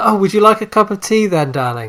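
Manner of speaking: high, put-on hinting wife voice, dropping onto an elongated "darling"; imitating wife, pointed darling. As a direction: mimic a wife's loaded polite offer. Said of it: "the, the elongated darling at the end".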